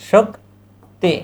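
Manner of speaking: শক্তি said very slowly, falling; slow teacher demo; slow pronunciation demo. Shown as a demonstration. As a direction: draw out শক্তি for the class. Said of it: "আ".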